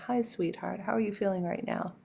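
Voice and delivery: tender check-in; kind and loving. Shown as a demonstration. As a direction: speak kindly to your inner child. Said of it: "most kind, loving, generous, thoughtful way".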